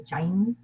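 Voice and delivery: Jain with a gliding "ai", like "Jine"; Indian-language pronunciation. Shown as a demonstration. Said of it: "in Indian language".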